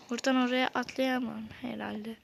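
whispered to himself. Real, not acted. Streamer sizing up a jump, whispered aside. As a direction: whisper it as if planning in secret. Muttering while planning a jump.

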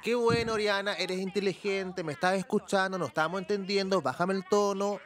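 Pamela condescendiente. Retold or imitated. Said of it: "Entonces la Pamela dice". (imitando elogios condescendientes, en tono más agudo)

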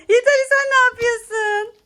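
high scolding call across the room. Real, not acted. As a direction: call out sharply to stop him. Scolding the other child.

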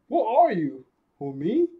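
high, cheerful cartoon voice. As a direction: sing it out like a carefree kid. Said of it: "Kobe's like".

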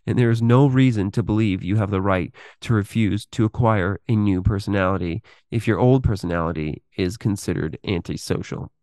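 measured, articulate reading of a written exposé; read-aloud narration. Acted. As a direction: read it out in deliberate phrases with pauses. Reads a written text aloud.

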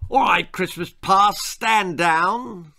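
officer taking command; military turkey. Acted. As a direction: give orders like a drill sergeant. Younger turkey takes military command.

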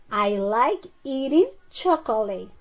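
slow, stretched-out example for learners; slow model sentence. Shown as a demonstration. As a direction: model the sentence slowly for the class. Teacher repeats the answer sentence.

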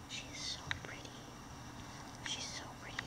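hushed whisper of awe; awed whisper over the new toy. Real, not acted. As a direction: breathe the words in wonder. Admiring the soft cougar toy.

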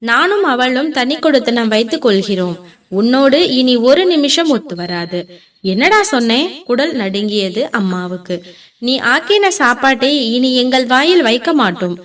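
loud declaration. Acted. Son declares to his mother, loud and firm. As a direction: lay down the break with force. Son announces split, shouting.

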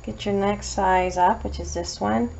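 chewing gum while talking. Real, not acted. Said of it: "I'm chewing my gum really loud".

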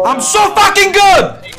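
slow, drawn-out triumphant boast; excited brag. Real, not acted. Bragging after a kill.

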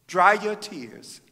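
slow, gentle divine reassurance; calm comforting voice of God. Retold or imitated. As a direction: speak it slowly, tender and sure. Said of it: "And then he said".

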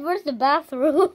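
quoted through laughter; laughing misquote. Retold or imitated. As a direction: laugh while quoting it. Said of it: "I thought you said".

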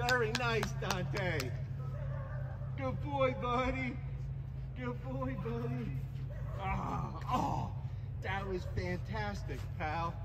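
high, soft doggy praise; squeaky praising a dog. Real, not acted. High praise to dog after fetch.

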